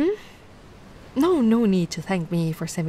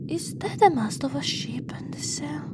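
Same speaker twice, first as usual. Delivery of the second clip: hushed whispered question, unvoiced; 3 semitones higher than usual. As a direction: breathe the question, wary of what she sees. Whispering at ship remains.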